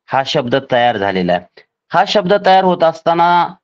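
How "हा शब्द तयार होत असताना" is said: normal talking voice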